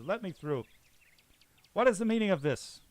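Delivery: high, loud, offended lord; indignant nobleman. Acted. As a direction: push through the crowd, scandalised.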